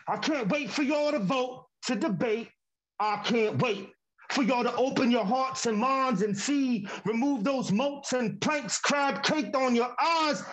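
rhythmic performance poetry, building and falling; spoken word poem. Acted. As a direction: perform it like a slam poem on stage.

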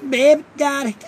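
high-pitched pop star voice; a singer. Acted. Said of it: "a singer".

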